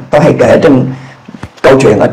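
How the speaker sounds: ordinary talk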